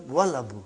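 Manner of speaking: "Wal Abu" with waw linked straight onto the lam; joined pronunciation. Shown as a demonstration. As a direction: run "Wal Abu" together, lam sounded. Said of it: "If I put Waw in front of it".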